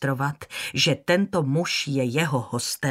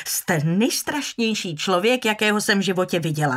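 higher, louder angry tirade, rushing; furious outburst; 4 semitones higher, 4 dB louder than usual. Acted. Scarlett stamps her foot and rages at Rhett. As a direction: lose control and let him have it. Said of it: "Přestala se ovládat a dupla si".

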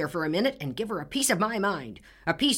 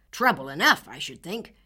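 put-on angry old man; 6 dB louder than usual. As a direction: bellow the grievance. Furious neighbor berates Anne.

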